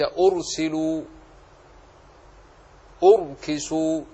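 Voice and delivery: "أرسلوا، أركسوا" with full, heavy ر. Shown as a demonstration. Teacher listing examples, "أرسلوا، أركسوا" with heavy ر. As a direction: thicken each ر in "أرسلوا، أركسوا". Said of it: "تفخم".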